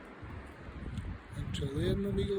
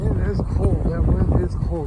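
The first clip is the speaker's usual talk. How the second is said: raised voice against the wind; shouting over wind; 7 dB louder than usual. Real, not acted. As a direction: call out loudly over the gusts. Shouting outdoors in strong wind.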